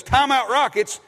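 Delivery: crisp announcer call at normal pace; Bill's call. Retold or imitated. Pastor imitates Bill calling a timeout crisply. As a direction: snap it off like a pro announcer. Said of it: "Bill says".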